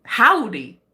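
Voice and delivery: mimicking a Brit's attempt at American; mock American cowboy greeting; bad American accent. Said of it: "in an American accent".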